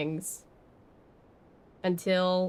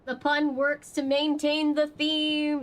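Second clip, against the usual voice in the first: reading aloud; 8 semitones higher, 4 dB louder, slower than usual. Acted. Reads book blurb aloud.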